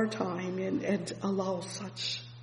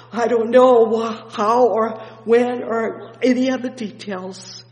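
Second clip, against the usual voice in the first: sudden louder outburst of preaching; 3 semitones higher, 11 dB louder than usual. Acted. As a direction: punch it out to the pews. Sudden loud preaching burst.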